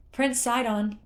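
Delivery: high, loud, elated call to the prince; jubilant call. A narrator's reading. Torafu hails the prince with good news, jubilant call. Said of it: "Torafu called, jubilant".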